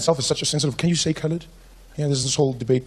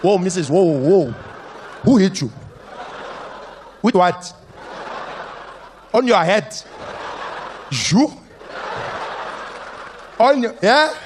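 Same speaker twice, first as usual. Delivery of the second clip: mock police sergeant; 3 semitones higher, slower than usual. Sergeant questioning woman at police station.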